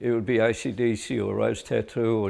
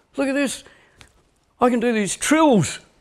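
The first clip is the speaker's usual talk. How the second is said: put-on very high, loud, excited Scottish accent. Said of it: "In his Scottish accent".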